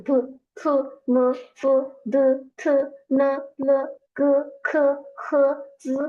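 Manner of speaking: syllables ভু, ফু, মু, দু, থু sounded one by one for a student; pronunciation demo. Shown as a demonstration. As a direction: model each initial slowly for the learner. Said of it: "আপনাকে শোনাই".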